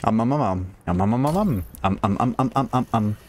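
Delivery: mock string of repeated ums; lightly mocking run of filler ums; Pain God. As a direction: rattle off ums, teasing a verbal tic. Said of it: "I feel like Pain God with the amount I say, um".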